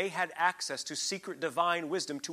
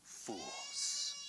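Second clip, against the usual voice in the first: mock falsetto; 9 dB quieter than usual. Mocking the Egyptian sages.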